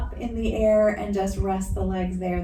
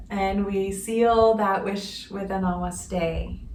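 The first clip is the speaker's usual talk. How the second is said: spoken blessing. Real, not acted. Yoga teacher offers an intention to the class, measured blessing.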